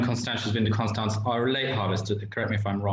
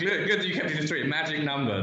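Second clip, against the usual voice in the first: laughing tease; 5 semitones higher than usual. Real, not acted. Teasing after guest picks three.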